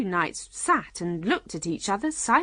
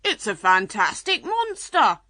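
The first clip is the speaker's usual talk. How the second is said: loud, excited unicorn; crying out; 3 semitones higher, 5 dB louder than usual. A narrator's reading. Unicorn answering before Alice can reply, crying out. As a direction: proclaim it loudly, like a wonder. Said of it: "the unicorn cried".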